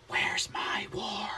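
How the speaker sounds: slow, breathy mock whisper; Biden whisper. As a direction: hiss it out like Biden's odd whisper. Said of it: "that weird whispering thing he does".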